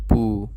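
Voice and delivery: পু said clearly on its own; repeat after me. Shown as a demonstration. Teacher asking students to repeat পু. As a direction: model the syllable পু for echoing. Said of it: "আমার সাথে বলেন".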